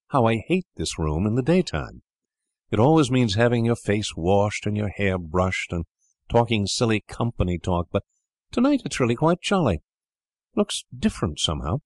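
a hint of a boy grumbling about company; lightly voiced boy Edward. Boy by the fire telling siblings, lightly voiced boy.

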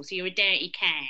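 nasal South London demo; South London accent, a bit nasal. Shown as a demonstration. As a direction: put South London through the nose. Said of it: "comes through the nose, and it's a bit nasal".

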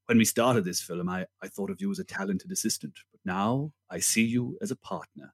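low, soft, measured grand-actor line; lightly voiced Olivier, low and quiet; Olivier quote. Olivier addressing his co-star after filming, low and measured. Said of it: "he turns to Kane and says".

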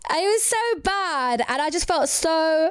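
high, drawn-out words on the edge of laughter; laughing. Real, not acted. Podcaster admitting she mocked a rapper, trying not to laugh. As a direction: confess it while fighting the giggles. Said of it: "she's laughing now".

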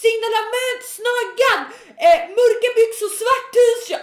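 high, urgent yell to the police; sustained high-pitched acted shout; retold screaming. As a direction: re-enact shrieking a suspect description down the phone. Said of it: "varav jag bara skriker".

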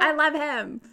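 loud, high declaration of love; adoring cry; gushing adoration. Real, not acted. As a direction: gush helplessly, half laughing. Gushing over the character.

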